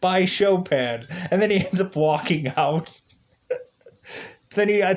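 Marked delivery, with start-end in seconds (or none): 0.0-1.0 Stewie imitation. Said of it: "he's like".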